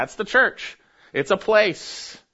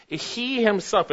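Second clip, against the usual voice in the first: slow "He himself", weight falling on "himself"; stress on himself; 5 semitones higher, slower than usual. Shown as a demonstration. Preacher slowing to stress "He himself" to listeners. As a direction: dwell on "himself" to focus on him. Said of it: "it is focusing on him".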